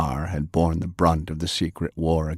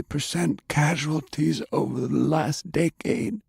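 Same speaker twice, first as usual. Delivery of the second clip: put-on lightly raised, indignant old gentleman; a pitch-raised, prim older man, gently scolding; Browning's voice; 9 semitones higher, 3 dB quieter than usual. Browning arguing grimly.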